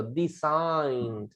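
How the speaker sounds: "Design" drawn out slowly as di-SAIN; model pronunciation. Shown as a demonstration. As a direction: model "Design" for a learner to repeat. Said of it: "repite conmigo".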